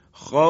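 خوف with the vowel held long and the ending cut off; stretched pause form. Shown as a demonstration. Teacher shows the class the pause on خوف, stretched. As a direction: stop on خوف, drawing out its vowel. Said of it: "مد به وجود میاد".

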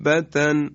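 دابتن with the long alef stretched; tajweed example word. Shown as a demonstration. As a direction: hold the alef in دابتن for six beats. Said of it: "به مثال توجه بفرمایید".

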